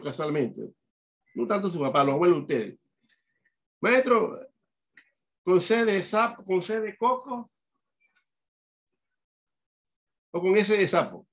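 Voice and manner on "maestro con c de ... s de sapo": put-on high, pleading child's question to the teacher; old-time student asking. Grandparents as pupils asking the teacher, in a high voice. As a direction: lift the pitch like a pupil asking. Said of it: "sus abuelos".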